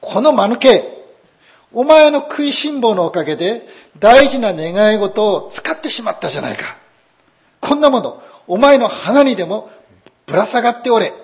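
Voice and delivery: furious shout at his wife; shouting at the foolish wife; angry yell. A narrator's reading. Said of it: "主人が怒鳴りました".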